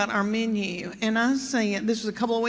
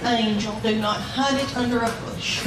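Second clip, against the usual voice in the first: mock sweet blessing. Mock blessing the young girls.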